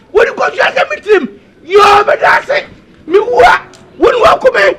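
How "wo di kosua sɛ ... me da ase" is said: sobbing lament. Acted. Man laments his fate to the crowd, sobbing. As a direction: wail through tears.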